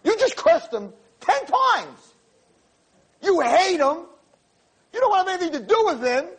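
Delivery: triumphant declaring. Retold or imitated. Rabbi tells the angry girl she believes, high and emphatic. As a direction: proclaim it like a revelation. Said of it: "I said, You don't understand".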